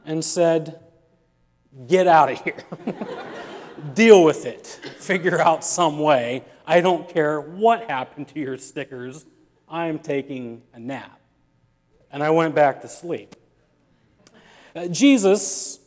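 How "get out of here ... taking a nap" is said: mock rebuke. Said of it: "I rebuked my son".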